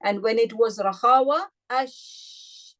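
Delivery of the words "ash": ash with the sh let out, air flowing freely; hissed letter. Shown as a demonstration. Teacher shows class rakhawa, letting ash flow. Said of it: "easy flow of sound".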